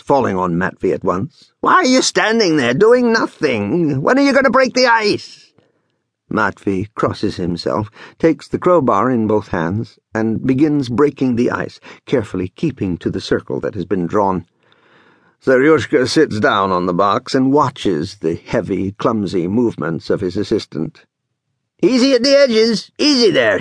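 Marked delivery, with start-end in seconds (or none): 1.6-5.5 high-pitched scolding rant; indignant, rising high cry. A narrator's reading. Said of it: "he cries". 21.8-23.6 high, urgent shouted order; excitable foreman ordering a helper; commanding. A narrator's reading. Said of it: "he commands".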